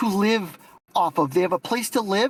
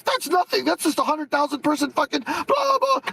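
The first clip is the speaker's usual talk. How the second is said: higher, slow mocking sneer; dismissive mock quote; 5 semitones higher than usual. Mocking his debate opponent's dismissal, higher sneering voice. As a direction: imitate his brush-off with a sneer. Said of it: "You're gonna be like".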